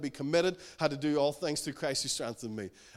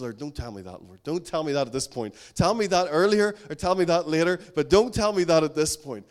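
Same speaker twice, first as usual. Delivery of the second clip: louder, rising pleading complaint; a hint of indignant protest, building louder; retold protest; 8 dB louder than usual. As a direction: push back at God in mock exasperation.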